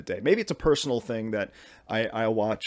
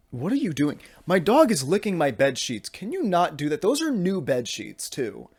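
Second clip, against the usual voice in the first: higher-pitched, exasperated telling-off; scolding the dog; 5 semitones higher than usual. Real, not acted. Owner to dog licking the bed sheets, scolding. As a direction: chide a misbehaving pet.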